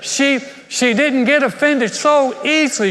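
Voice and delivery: high, laughing through the words. Real, not acted. Preacher laughing with the congregation about offense, laughing. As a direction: chuckle and push the point.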